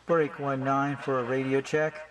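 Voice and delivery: slow, drawn-out trucker radio call. Shown as a demonstration. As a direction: call it out over the CB. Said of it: "Use the channel nineteen".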